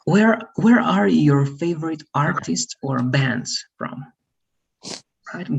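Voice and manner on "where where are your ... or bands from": slower, more emphatic question; clearer repeat. Real, not acted. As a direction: repeat it slowly and firmly for a learner. Repeats question for student who missed it.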